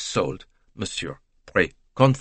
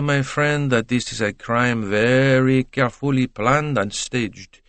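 measured Poirot; 3 semitones higher than usual. Acted. Poirot reasons with his friend.

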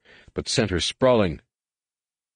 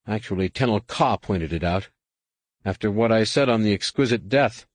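earnest, slightly raised brother's voice; lightly voiced earnest Jacen, apologetic. Jacen apologizing to his wounded brother, lightly voiced and earnest. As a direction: own up gently to being wrong.

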